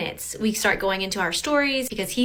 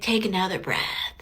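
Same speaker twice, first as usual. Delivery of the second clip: whispered; 3 semitones lower than usual. Retold or imitated. Lauren quotes the guy telling her to breathe, in a whisper. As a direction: whisper take another breath. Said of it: "And he's like".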